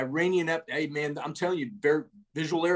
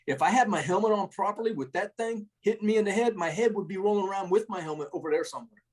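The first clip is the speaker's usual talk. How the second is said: deadpan; 6 semitones higher than usual. Retold or imitated. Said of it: "with a straight face".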